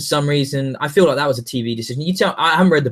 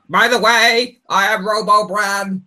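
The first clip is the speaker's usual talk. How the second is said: hammed-up mystic announcement; mock Bran; 6 semitones higher, slower than usual. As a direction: intone it like a self-important robotic seer. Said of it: "Branopedia will show up and be like".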